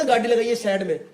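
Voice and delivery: lightly imitated Haryanvi order; Haryanvi accent. Retelling how he told me to pull over, in Haryanvi. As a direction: quote it with a Haryanvi twang. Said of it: "एकदम खड़ी हरियाणी में बोला".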